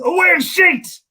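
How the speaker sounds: high, fast Northern Irish outburst; sudden high-pitched burst in thick Northern Irish; angry Northern Irish accent. Shown as a demonstration. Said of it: "the way he would say it".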